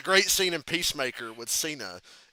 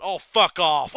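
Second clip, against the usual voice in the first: mock outraged; 6 dB louder, slower than usual. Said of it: "the girl goes".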